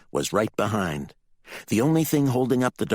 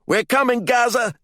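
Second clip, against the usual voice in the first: loud, high rallying shout; yelled; 7 dB louder than usual. A narrator's reading. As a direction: yell to a friend that help is coming. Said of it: "one of them yelled".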